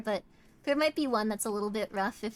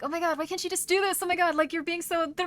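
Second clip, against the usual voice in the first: higher, whiny complaint; mock whiny boyfriend, lightly raised; whiny manipulative guy; 5 semitones higher than usual. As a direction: nag like an insecure boyfriend. Acting out manipulative fella.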